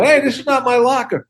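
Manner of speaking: high-pitched mimicked catchphrase; imitating fans quoting a movie line; imitated fan call-out. Fans calling his line at him.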